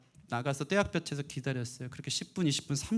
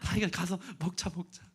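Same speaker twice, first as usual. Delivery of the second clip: melting reassurance; 4 semitones higher, 4 dB louder than usual. Retold or imitated. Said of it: "마음이 녹아".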